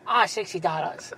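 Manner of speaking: softly attempted caricature of an Asian accent; mock Asian accent. Co-host asked for an accent on the customer, mock Asian accent. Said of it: "D-, do an accent".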